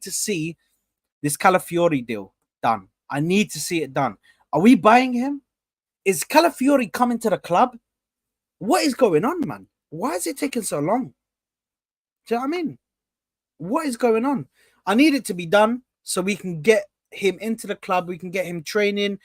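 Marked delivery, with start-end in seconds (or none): 4.5-16.4 exasperated. Real, not acted. Impatient about transfer delay.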